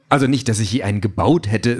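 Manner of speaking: talking through a laugh. Acted. Car laughingly reassures Peter, talking through laughter. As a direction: laugh it off as you speak. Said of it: "sagt das Auto lachend".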